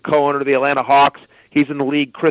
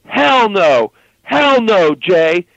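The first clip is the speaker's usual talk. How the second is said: loud, high protest, hammed up; mock angry yell; 6 semitones higher, 4 dB louder, much slower than usual. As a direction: shout "hell no" like a furious guy in a club. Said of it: "he goes".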